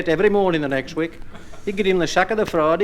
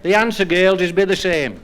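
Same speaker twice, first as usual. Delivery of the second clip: bouncy rhymed delivery to the audience; comic verse recital. Acted. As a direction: land each rhyme like a punchline. Second recited comic poem.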